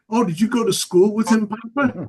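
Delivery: a hint of a cheeky six-year-old; grandson voice. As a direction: grandson teasing Papa. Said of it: "He goes".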